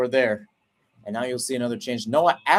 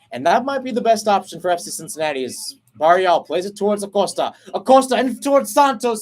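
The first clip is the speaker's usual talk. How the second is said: rising excitement; 6 semitones higher, 5 dB louder than usual. Real, not acted. Chance building in live commentary.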